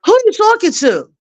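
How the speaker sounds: imitating a kid's lippy comeback; sassy back-talk. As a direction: talk back like a cheeky kid. Kids talking back, imitated.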